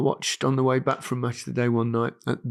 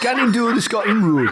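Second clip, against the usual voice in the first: louder try at Geordie gannon; attempted Geordie; 7 semitones higher, 4 dB louder than usual. Repeating the Geordie line after Alan, attempted Geordie accent. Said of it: "then we'll repeat".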